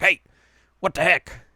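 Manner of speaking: high, loud mock protest; indignant protest. Retelling Moroku's reaction, mock indignant protest. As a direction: protest in hammed-up outrage. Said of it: "Moroku's like".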